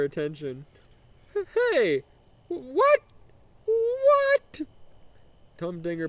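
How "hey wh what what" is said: high mock Italian calls; high Italian calling. Humdinger calling for the ignoring window girl in mock Italian. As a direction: try to get her attention in broken Italian. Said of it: "obnoxious broken Italian accent".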